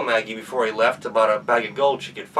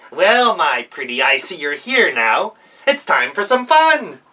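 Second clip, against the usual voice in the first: slow, louder, gloating goblin voice; menacing goblin; 4 semitones higher, 6 dB louder than usual. Acted. Goblin gloats over the girl, slow and menacing. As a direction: savour the threat.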